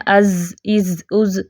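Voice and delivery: از made thin and light; wrong thin zal. Shown as a demonstration. Teacher shows the mistake of a thin ظ. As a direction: demonstrate the too-thin ظ. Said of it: "نہ ہی اس کو باریک کر دینا".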